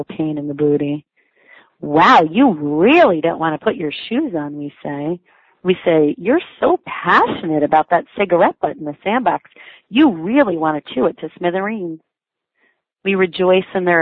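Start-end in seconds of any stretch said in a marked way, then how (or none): 1.8-4.6 sing-song encouraging parent with big pitch swings; exaggerated upbeat parent voice; mock cheering. Parent cheering a stubborn toddler. 6.2-12.0 sing-song encouraging parent with big pitch swings; exaggerated upbeat parent voice; mock cheering. Parent praising a toddler's willfulness.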